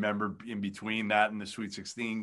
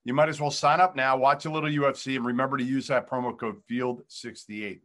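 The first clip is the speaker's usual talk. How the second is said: ad read; 3 semitones higher than usual. Acted. Sponsor read mid-interview.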